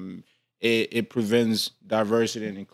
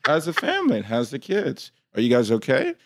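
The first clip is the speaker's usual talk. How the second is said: polite office voice; 3 semitones higher than usual. Shown as a demonstration. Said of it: "when I'm talking to white folks".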